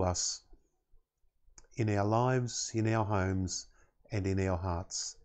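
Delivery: reverent spoken prayer. Real, not acted. Minister thanking God before communion, measured prayer. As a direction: pray unhurriedly, pausing between phrases.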